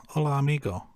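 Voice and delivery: friendly amateur Spanish accent; cheerful tourist Spanish accent; welcoming a listener from Mexico in a Spanish accent; Spanish greeting. Shown as a demonstration. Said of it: "my terrible language and accent".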